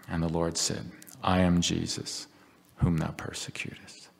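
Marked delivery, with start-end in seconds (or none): 1.2-4.1 tender voice. Acted. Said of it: "I can't read those words in a tender enough voice".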